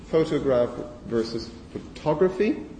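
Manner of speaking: photograph with full vowels, photography with schwa; contrast demo. Shown as a demonstration. Lecturer showing stress shift to students. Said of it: "contrast between those two words".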